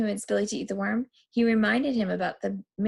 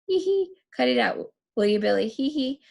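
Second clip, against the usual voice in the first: nervous chuckle; 5 semitones higher than usual. Acted. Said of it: "chuckling nervous".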